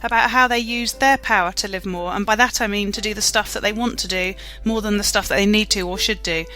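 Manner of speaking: scripted, evenly paced welcome to the show; host's prepared show opener; podcast intro read. Acted.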